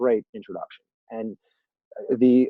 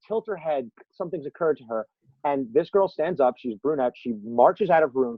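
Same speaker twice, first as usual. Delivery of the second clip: usual speaking voice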